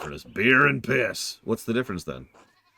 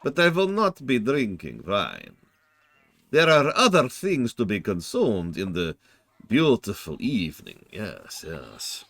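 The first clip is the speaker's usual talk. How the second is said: Count Dracula voice. Acted. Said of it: "Wait, Count Dracula?".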